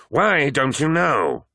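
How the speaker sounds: slow, high, forceful demand; angry shout. A narrator's reading. First Captain slams apothecary against wall, angry shout.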